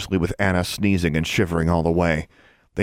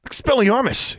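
yelled spell. A narrator's reading. Larry yells a spell at Alexandra, forceful. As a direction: shout the spell. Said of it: "he yelled".

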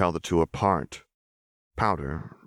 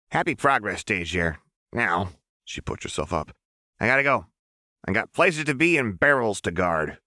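put-on higher, lighter voice of a strange young girl; 4 semitones higher than usual. Narrator voicing Jinx, insistent young girl. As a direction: voice the girl insisting she knows her.

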